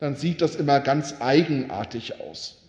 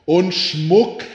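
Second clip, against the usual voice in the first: loud, higher croak of a greedy magpie; 3 semitones higher, 6 dB louder than usual. Acted. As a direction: squawk it out like a magpie. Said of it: "krächzte die Elster".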